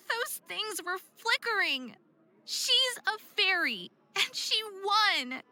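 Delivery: tearful and slowing down, protesting it's unfair; upset, close to tears. Acted. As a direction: hold back tears while insisting she cheated. Dawn upset after losing the contest.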